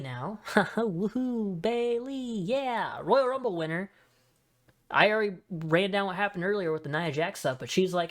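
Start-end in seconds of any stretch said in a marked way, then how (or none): 0.5-3.9 high-pitched, gleeful fan cheer; celebratory, lifted voice; excited cheering. Real, not acted. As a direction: whoop with a laugh for a favorite. Cheering as Bayley's segment begins.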